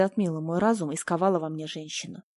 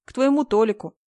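decisive; 3 semitones higher, 6 dB louder than usual. A narrator's reading. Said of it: "Я решительно встала".

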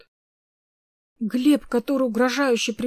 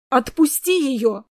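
loud, slow, indignant demand; 2 semitones higher, 5 dB louder, slower than usual. A narrator's reading. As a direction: order her to let go, outraged. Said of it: "возмутилась я".

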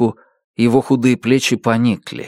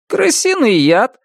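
shrugging; 13 semitones higher, slower than usual. A narrator's reading. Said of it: "пожав плечами".

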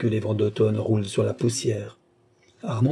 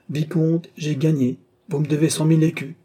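baron's voice; 5 semitones higher, 3 dB louder than usual. Acted. Baron claims his winnings.

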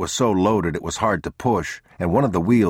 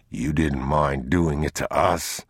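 slightly lowered, slow reply; unmoved man; 3 semitones lower than usual. Acted. Man answers the thief who robbed them, unmoved.

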